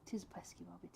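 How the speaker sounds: whispered "wabbit" with a w for the r; says w for r. Retold or imitated. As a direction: softly echo "pesky wabbit" with a w. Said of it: "can't say his R's".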